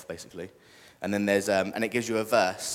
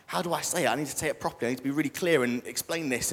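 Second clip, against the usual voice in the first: freaking out; 5 semitones higher than usual. Retold or imitated. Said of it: "a bit, bit freaking out".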